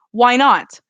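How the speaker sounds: rising voice. A narrator's reading. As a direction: let the voice climb out of control. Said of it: "My voice rises".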